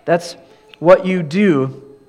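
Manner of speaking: mock admiring, "really wise" said tongue in cheek; sarcastic. Preacher voicing Paul mocking the wise Corinthians, sarcastic. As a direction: tease them with fake praise. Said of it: "you can hear the sarcasm that Paul says".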